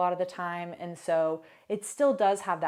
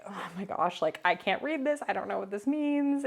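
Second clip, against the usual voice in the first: overwhelmed. Retold or imitated. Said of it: "it definitely is overwhelming to feel like".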